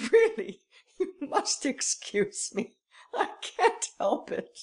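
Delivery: high, loud laughing burst, words breaking into laughs; can barely get the words out for laughing; roaring with laughter. Acted. Devanne laughing at the detective's stolen watch, roaring with laughter. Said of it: "He roared with laughter".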